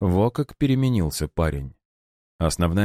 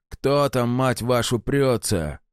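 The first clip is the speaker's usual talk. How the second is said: rough yelling; 6 semitones higher, slower than usual. A narrator's reading. Guard yelling from barricade.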